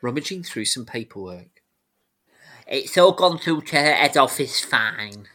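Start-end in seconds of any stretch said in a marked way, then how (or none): 2.7-5.3 hammed-up soap delivery; over-enunciated soap line; theatrical line reading. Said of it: "just the way you say those lines".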